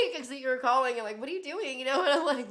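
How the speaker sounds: laughing through a high mock question. Laughing while quoting the caller's nosy questions. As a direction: giggle while you quote him. Laughing retelling his calls.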